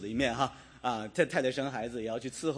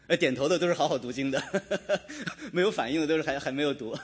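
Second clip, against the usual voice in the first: chuckling while teasing the listeners; laughing; faster than usual. Real, not acted. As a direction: tease them through a laugh. Teasing congregation about Bible reading. (边笑边调侃)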